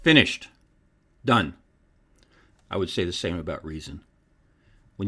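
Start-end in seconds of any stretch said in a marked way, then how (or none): 0.0-1.5 terse, emphatic two-word verdict; separate, punchy single-word pronouncements; brief and laconic. Retold or imitated. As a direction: deliver each word as a final verdict. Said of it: "was brief and laconic".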